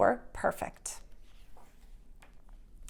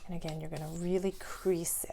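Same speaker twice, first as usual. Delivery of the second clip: whispered instruction; 3 semitones lower, 8 dB quieter than usual. Real, not acted. Teacher demonstrating folds.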